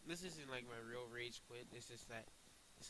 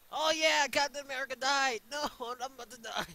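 high, loud panicked gamer yelling; high-pitched shout at the game; frantic shouting; 11 semitones higher, 15 dB louder than usual. Real, not acted. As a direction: yell it in the heat of the fight. Frantic shouting during game fight.

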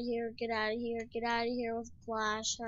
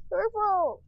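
shouting; 9 semitones higher, 9 dB louder than usual. Real, not acted. Accusing purple in the meeting.

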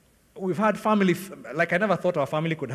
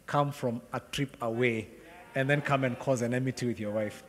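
gentle correction; 3 semitones lower, 5 dB quieter than usual. Retold or imitated. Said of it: "the Lord saying".

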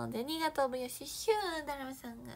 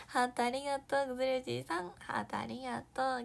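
ordinary talk, nothing marked

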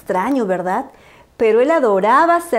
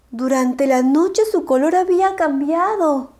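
plain reading voice

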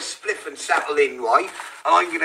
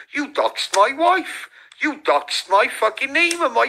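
mock whiny Expo; 7 semitones higher than usual. Streamer mocking a rival's online complaint, in a sneering whine. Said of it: "Expo jumping online going".

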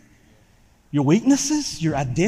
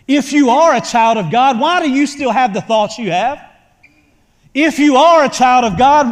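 louder, taunting accusation; accusing enemy; 4 semitones higher, 4 dB louder than usual. Acted. Preacher voicing the enemy accusing the churchgoer, taunting. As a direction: needle them like the accuser.

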